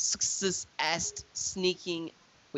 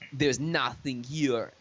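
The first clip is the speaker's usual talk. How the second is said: slow, hammed-up bad Russian accent; 2 semitones lower, slower than usual. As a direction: play a clumsy Russian guard in a bad Russian accent. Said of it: "with that, the Bad Russian accent".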